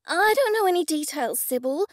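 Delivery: high, anxious denial; frightened. A narrator's reading. Rebecca denies knowing details to Sybil, frightened. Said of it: "stared at me in fright".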